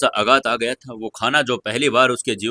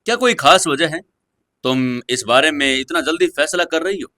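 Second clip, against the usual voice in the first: mild doubt; 4 semitones higher than usual. Acted. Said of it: "हल्के संदेह के साथ उससे पूछा".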